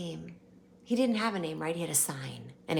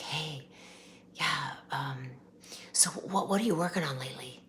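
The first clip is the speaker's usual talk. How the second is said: imitated whisper of a singer; 3 semitones lower, 5 dB quieter than usual.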